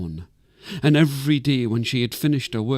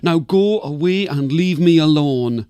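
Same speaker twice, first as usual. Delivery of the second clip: put-on louder and higher, a cross old woman yelling down; annoyed scream; 4 semitones higher, 5 dB louder than usual. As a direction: shoo her away from the mountaintop. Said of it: "she would scream down at Anjalara".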